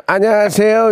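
imitating excited. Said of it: "목소리가 좀 많이 상기돼".

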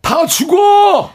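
put-on loud, high, drawn-out old man's yell. Shown as a demonstration. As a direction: bellow it like a panicked grandpa. Repeats grandfather line on request. (크게 느리게 외치는 할아버지)

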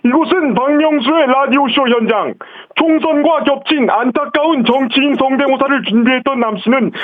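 on-the-scene TV news report; field reporter voice. Pretend. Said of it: "취재 기자 해보겠습니다".

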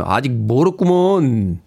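slow, teasing Chungcheong drawl; a slow Chungcheong put-down; 충청도 말투로 느리게; Chungcheong dialect. Retold or imitated. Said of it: "이혜숙 님".

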